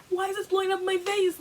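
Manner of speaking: high, fast exasperated complaint; exasperated cry. Retold or imitated. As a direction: throw the question up in frustration. Frustrated quote, much higher.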